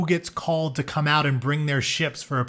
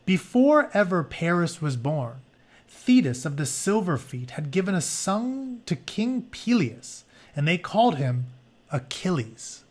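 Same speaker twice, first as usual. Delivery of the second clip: story narration; 2 semitones higher than usual. Acted. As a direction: read the myth to the class like an epic. Reads story book aloud.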